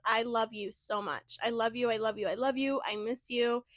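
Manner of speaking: soft, tender I love yous. Real, not acted. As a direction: murmur it to a friend you miss. Tender words to absent friend.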